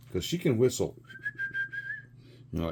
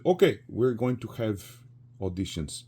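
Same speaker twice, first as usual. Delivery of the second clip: lightly put-on Polish accent; 3 semitones higher than usual. Conductor announcing auditions to the chorale, light Polish accent. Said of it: "I did his accent a little bit".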